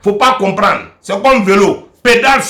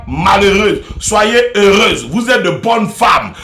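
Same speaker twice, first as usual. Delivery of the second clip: preacher's blessing. Acted. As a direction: bless the women like a pastor. Mock preacher's Women's Day blessing. (bénédiction solennelle de pasteur, lente)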